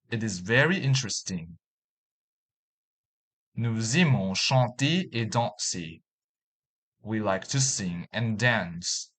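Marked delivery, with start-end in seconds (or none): 3.5-6.0 "Nous aimons" linked as "nou-z-aimons"; French liaison. Shown as a demonstration. Teacher demonstrating French liaison to learners. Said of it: "the following examples".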